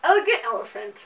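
cheeks stuffed like a chipmunk; mouth full. Real, not acted. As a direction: mumble past the marshmallows. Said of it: "You look like a chipmunk".

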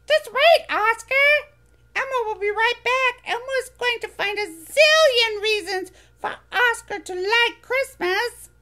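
high, bright little furry monster voice, eager; squeaky childlike monster, proud; Elmo voice. Acted.

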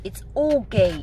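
"Aldgate" said as one word, "ALD-gate", slow and firm; correct Aldgate. Shown as a demonstration. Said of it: "It's not Old Gate".

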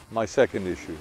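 ordinary talk, nothing marked

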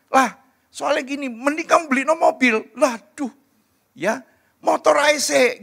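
high-pitched, animated back-and-forth protest; spirited arguing. Acted. Couple debating a car or motorbike for their child, spirited arguing. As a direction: argue it out, pitched well up.

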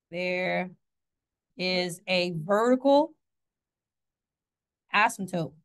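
slow, drawn-out, weighty announcement; slow dramatic emphasis. Shown as a demonstration. Teacher to class, slow mock-dramatic reveal. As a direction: spell it out slowly for the class. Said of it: "I don't know why I did that".

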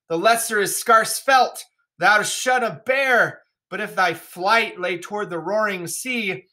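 a king brooding aloud, slow and grave; Lear in the storm. Acted. Teacher reading Lear to class, grave and slow. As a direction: read it as the old king losing his grip. Teacher reads Lear's speech.

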